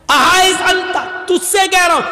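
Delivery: high-pitched acted exasperation; retold scolding, pitched high; exasperated shout. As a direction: call out impatiently to someone not getting it. Retold exasperated calling, not understood.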